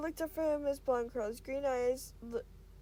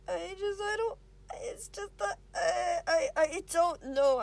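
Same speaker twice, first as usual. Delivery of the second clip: choked up; 5 semitones higher, 5 dB louder, slower than usual. Acted. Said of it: "Avery stammering near tears".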